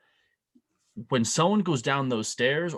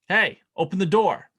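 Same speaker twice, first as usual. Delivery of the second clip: raised, higher call through a door; mock impatient knock-and-call; wife calling through door; 8 semitones higher, 7 dB louder than usual. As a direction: shout to be let in.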